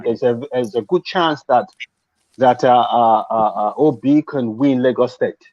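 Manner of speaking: normal talking voice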